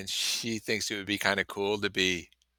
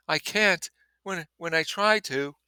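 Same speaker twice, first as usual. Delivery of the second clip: high and louder, laughing helplessly; words tumbling out through giggles; hilarious; 8 semitones higher, 4 dB louder than usual. Acted.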